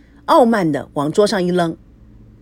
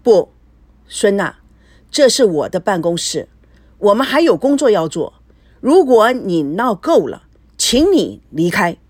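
coldly; 4 dB louder than usual. Acted. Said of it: "语气冷淡".

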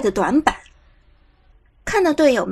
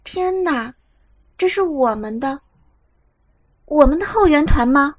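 disbelief; 3 semitones higher than usual. A narrator's reading. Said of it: "伍兹难以置信地看着观众席".

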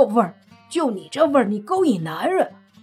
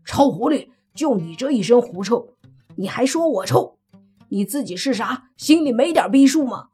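loud, higher furious yell; angry roar; 5 semitones higher, 6 dB louder than usual. Acted. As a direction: roar the insult at her. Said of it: "泥巴气得大吼一声".

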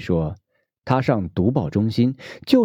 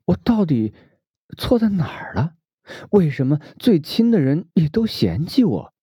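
a lightly voiced cousin, higher, near tears on some words; cousin pleading; 5 semitones higher than usual. Cousin asking her older cousin why family rejects her, lightly voiced and hurt. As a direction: ask for help, hurt and bewildered.

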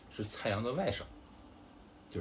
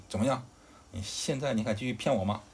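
raised voice, mildly angry storytelling; angry challenge; 4 dB louder than usual. Acted. Zhang Fei confronts Guan Yu over the lie, angry challenge. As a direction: throw down a challenge, a touch of anger. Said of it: "张飞特别生气".

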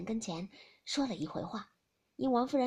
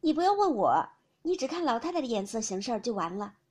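voiced lady's reply; 5 dB louder than usual. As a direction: lift the voice into a brisk household lady. Character speech in novel reading.

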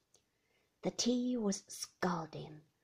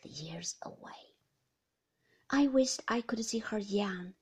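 hushed story narration. A narrator's reading. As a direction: read it close and hushed, almost whispered. Narrator reads reflective passage.

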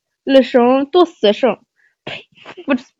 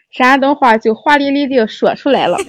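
Shandong dialect reading of the phrase; Shandong accent. Shown as a demonstration. Shandong accent for a language-learning video.

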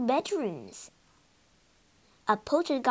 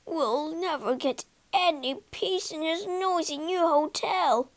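mild wail; 4 semitones higher than usual. Acted. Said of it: "wailed Charlie the waiter".

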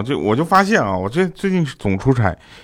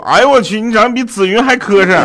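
loud, high teasing exclamation; mocking exclamation; 8 semitones higher, 6 dB louder than usual. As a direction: tease loudly in disbelief. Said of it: "一般都说".

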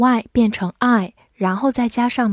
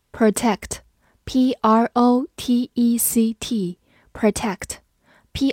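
slow spelling; much slower than usual. Shown as a demonstration. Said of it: "spelling and syllables".

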